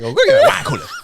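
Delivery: high squeaky voice through laughter; mock laughing voice. Friend mocks the teacher as Resfusion, laughing high. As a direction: squeal it while cracking up.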